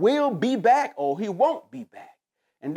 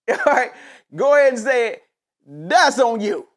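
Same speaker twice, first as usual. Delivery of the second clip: laughing emphasis; 2 semitones higher, 6 dB louder than usual. Real, not acted. Laughing, louder emphatic close.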